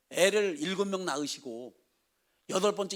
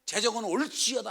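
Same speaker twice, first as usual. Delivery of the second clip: raised, firm 재정은 올지어다; firm decree; proclamation; 4 semitones higher than usual. Shown as a demonstration. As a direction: declare 재정은 올지어다 to the students. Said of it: "항상 그렇게 선포해요".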